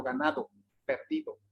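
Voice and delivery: GANADO, PERDIDO with hard stopped d's; over-articulate each d in "ganado, perdido"; pronunciación exagerada. Shown as a demonstration. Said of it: "usted puede exagerarlo". ("ganado, perdido" exagerando la d)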